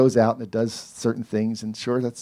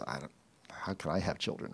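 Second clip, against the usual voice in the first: doubting Sarah; 6 semitones lower, 13 dB quieter, faster than usual. Retold or imitated. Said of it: "Sarah says".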